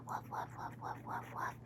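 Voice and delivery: tiny breathy dog barks, no voice; whispered woofs. Pretend. Pretend dog woofing into the listener's ear, whispered. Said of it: "I'm just going to whisper in your ear".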